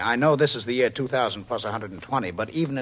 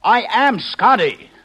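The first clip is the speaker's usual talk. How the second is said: desperate shout; 10 semitones higher, 9 dB louder than usual. Acted. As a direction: make her believe you. Husband pleads desperately.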